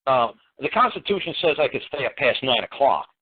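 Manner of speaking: lightly voiced bratty child, rising to a squeak; mock whiny kid. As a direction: play a kid pestering his dad, mildly mocking. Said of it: "one of the kids I got come up to me and say".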